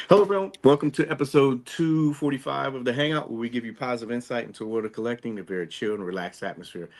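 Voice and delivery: upbeat podcast welcome; show host intro. Acted.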